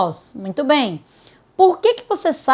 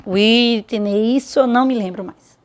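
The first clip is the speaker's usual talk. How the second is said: despairing student. Acted. Student pleading to Whitney they don't remember, mock despair. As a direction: play a student who has forgotten it all. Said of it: "Não se desespere".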